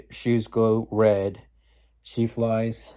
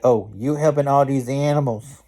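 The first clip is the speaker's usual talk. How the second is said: mildly hammed-up indignation, raised pitch; upset East Witch; 4 semitones higher, 5 dB louder than usual. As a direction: complain loudly as a put-out witch. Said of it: "the East Witch is all getting upset".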